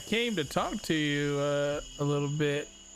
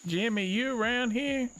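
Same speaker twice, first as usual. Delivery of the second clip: high, raised call into a cave; 9 semitones higher, 4 dB quieter than usual. Real, not acted. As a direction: call out to a friend far away. Calling for Jimmy down cave.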